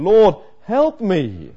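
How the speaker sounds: slow, drawn-out plea for help; a desperate mother pleading, stretched out slow; begging plea. Retold or imitated. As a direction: beg him slowly, from your knees. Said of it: "She's begging the Lord Jesus Christ".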